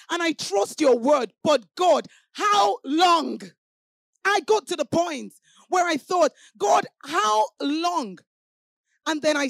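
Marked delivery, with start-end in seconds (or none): 0.1-3.4 pleading cry. Retold or imitated. Retold cry to God. 6.6-8.2 very slow, higher drawn-out plea. Retold or imitated.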